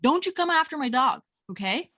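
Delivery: mock scolding. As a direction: scold the bully duck, half playful. Scolding the attacking duck.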